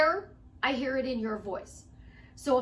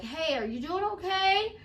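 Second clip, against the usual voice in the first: higher, lilting friendly question; concerned check-in; 5 semitones higher than usual. Retold or imitated. Coach checking on a frustrated client, lightly concerned. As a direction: check in gently, voice lifting.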